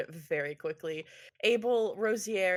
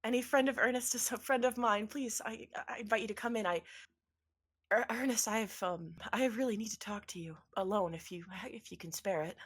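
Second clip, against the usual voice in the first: a hint of a welcoming, slightly higher wife; lightly voiced earnest wife; 4 semitones higher than usual. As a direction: welcome him, then ask urgently to talk alone. GM voices Imelda.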